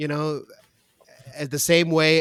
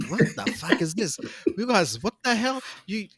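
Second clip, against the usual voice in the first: raised, indignant mock customs officer; mock border guard; 2 semitones higher than usual. Imagined guard grilling Australians over a meat pie, mock outrage. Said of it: "they're like".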